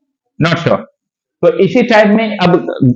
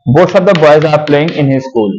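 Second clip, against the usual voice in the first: very slow full sentence; slow dictation; much slower than usual. Shown as a demonstration. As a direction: read the sentence slowly for the class. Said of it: "देखो".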